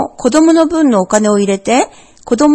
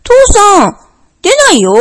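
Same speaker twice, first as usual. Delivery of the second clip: higher, louder little cub complaint; tugging at dad, nothing's there; disappointed bear cub; 9 semitones higher, 5 dB louder than usual. A narrator's reading. Bear cub tells father no star appeared, disappointed.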